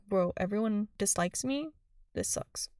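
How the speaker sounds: sulky quiet whimper; mock sad mumble. Vlogger pretends to be Sabrina, softly deflated. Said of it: "I would be like".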